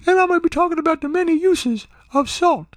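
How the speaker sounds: very high Bubba-like lady voice; high mock lady introducing her topic; imitated radio guest. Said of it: "That's how she sounded".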